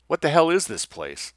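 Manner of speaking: called out loudly. Acted. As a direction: shout it out as a lost hunter. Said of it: "Lessing called out loudly".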